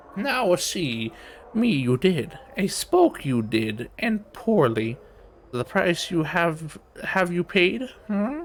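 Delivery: put-on amused old crone voice. Narrating a story, voicing the crone as she speaks, amused old crone. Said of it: "The crone sounds amused".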